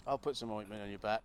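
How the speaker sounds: creepy low voice. Pretend. Low creepy mock offer.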